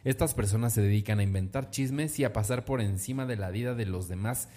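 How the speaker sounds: reading out an angry denial, mildly worked up; firm, emphatic public rebuttal; mildly indignant statement. Retold or imitated. Host reads a celebrity's statement against gossip magazines, mildly indignant. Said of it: "Pues enojada".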